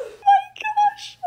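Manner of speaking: breathless, very high, slow oh my gosh; stunned by how pretty it is, drawn out slowly; awed gasp. Real, not acted. Unboxing the new office chair.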